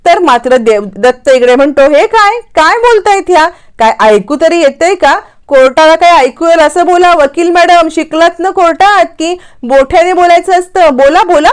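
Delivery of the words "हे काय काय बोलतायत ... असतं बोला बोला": higher, mocking, bullying the new lawyer; smug courtroom heckling; domineering taunt. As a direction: lean on her like a smug rival lawyer. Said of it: "मुद्दाम अबोलीला dominate करायला लागतो".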